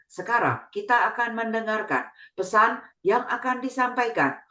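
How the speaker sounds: lightly flat, toneless robot reading. Shown as a demonstration. Gadget voice to children, mildly flat monotone. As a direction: drone it like an AI voice with no tune. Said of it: "intonasinya datar ya".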